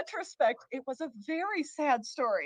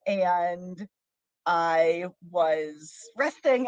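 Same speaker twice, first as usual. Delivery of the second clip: low, deliberate bedtime-story narration; storyteller; 5 semitones lower than usual. Acted. Host tells a childhood bedtime story, storyteller voice.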